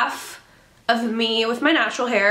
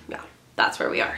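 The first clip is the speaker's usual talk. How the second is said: whispered; 5 dB quieter, faster than usual. Real, not acted. Whispered aside.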